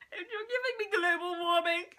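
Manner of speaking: dreamy reread with giving stressed; swooning line. Retold or imitated. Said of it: "You give me chills".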